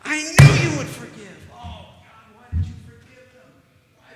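high, whining prophet griping at God; whiny Jonah. Retold or imitated. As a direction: whine at God like a sulking child. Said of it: "he goes".

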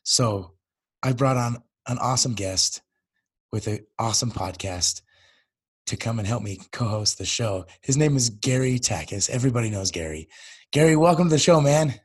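hoarse, worn-out voice; lost voice. Real, not acted. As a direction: speak through a lost voice. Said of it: "I've totally lost my voice".

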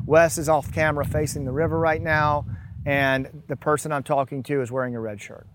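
walk through the steps calmly; calm grounding exercise. Shown as a demonstration. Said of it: "demonstrates the grounding routine".

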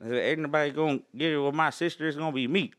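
a hint of backwoods hillbilly; Hillbilly Joe. Shown as a demonstration. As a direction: joke in a hillbilly accent. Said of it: "that was Hillbilly Joe right there".

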